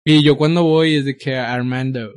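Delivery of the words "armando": put-on Armando with an English-speaker's accent; imitated English accent. Telling how other countries say the name, imitated English accent. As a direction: say Armando as foreigners would, in English. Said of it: "cómo te dirían en otros países".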